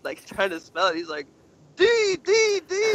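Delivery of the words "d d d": high, loud retold yell of one letter; shouting his name. Chris yelling his name at the cops, high shout. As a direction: bellow each letter as if no one is listening. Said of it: "like, shouting his name".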